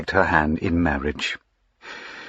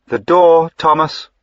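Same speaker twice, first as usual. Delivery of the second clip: higher, louder cold order; curt command; 8 semitones higher, 7 dB louder than usual. A narrator's reading. Diana orders the servant to show the squire out, commanding. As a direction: dismiss him with one clipped command.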